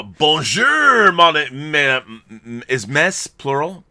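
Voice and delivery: a hammed-up French host saying hello; lightly French-accented bonjour; French greeting. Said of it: "you want me to speak French".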